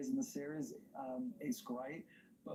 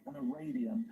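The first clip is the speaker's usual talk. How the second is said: dramatic retold realization, a bit louder; imitating the hero's realization; 2 semitones lower, 5 dB louder than usual. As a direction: quote it like the hero's sudden discovery. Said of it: "he's like".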